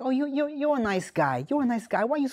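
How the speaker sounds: put-on heavy New Jersey accent, laid on. Retelling what a woman said to him, in a super Jersey accent. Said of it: "super jersey accent prostitute".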